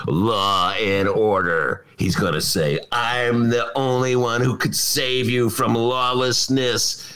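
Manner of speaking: slow, drawn-out mock Trump voice; a hint of a fearmongering politician, slow and ominous. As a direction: drag it out like a lightly voiced doom-mongering Trump.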